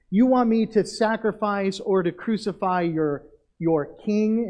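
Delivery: mild mock question; sarcastic taunt. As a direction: needle them with a light sarcastic question. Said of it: "all he's doing is continuing on with the sarcasm".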